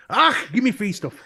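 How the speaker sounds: cheeky put-on Scottish accent. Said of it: "put on a fake Scottish accent".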